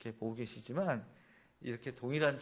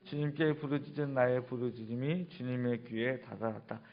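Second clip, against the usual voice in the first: slow, measured recitation; steady congregational reading, level in tune; scripture reading. Real, not acted. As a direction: read the verses out evenly for all to follow. Reads scripture aloud with congregation.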